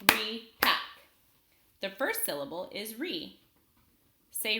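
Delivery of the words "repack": "Repack" clapped out as two separate beats, louder; split into syllables. Shown as a demonstration. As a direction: break "Repack" into Re, pause, pack. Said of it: "I'll clap it out".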